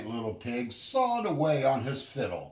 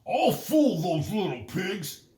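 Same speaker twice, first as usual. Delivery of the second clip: higher, louder scheming wolf voice; sly wolf chuckle; 7 semitones higher, 4 dB louder than usual. Acted. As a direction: plot aloud to yourself. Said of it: "chuckled the big bad wolf to himself".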